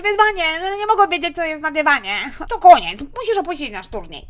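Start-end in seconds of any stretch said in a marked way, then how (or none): 2.5-4.3 shouted verdict. Acted. Son expels mother from game.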